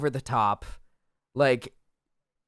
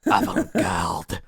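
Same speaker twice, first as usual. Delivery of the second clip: mock French director; 5 semitones lower than usual. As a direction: play a pompous French auteur.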